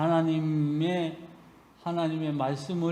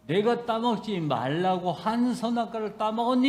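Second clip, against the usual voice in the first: pointed, higher questioning as God; God questioning Adam; 6 semitones higher than usual. Retold or imitated. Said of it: "이렇게 물-, 물으시는 거예요".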